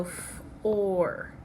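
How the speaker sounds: "f-, or" split into separate sounds; sounded out. Shown as a demonstration. Teacher sounds out the second syllable, "f-" apart from "or". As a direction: break it into "f-" then "or". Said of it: "What's your second syllable?".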